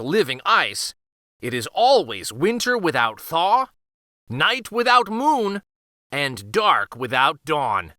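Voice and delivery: a lightly voiced old innkeeper, grave and storytelling; solemn innkeeper. Innkeeper telling the girl of the endless winter, lightly voiced and solemn. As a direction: lean into the curse like a tavern tale, slowing at the end.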